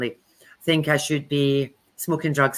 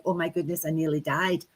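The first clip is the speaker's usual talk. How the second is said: shaken aura voice; 6 dB quieter than usual. Retold or imitated. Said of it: "your energetic body going".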